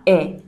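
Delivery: e said as short eh; e like in dreadful; short eh vowel; short e sound. Shown as a demonstration. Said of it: "It just sounds like e".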